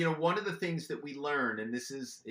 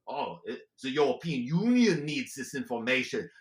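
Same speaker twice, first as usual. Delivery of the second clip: a lightly put-on German accent, louder; 6 dB louder than usual. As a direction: brush off the question in a mock German accent. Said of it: "My go-to was German".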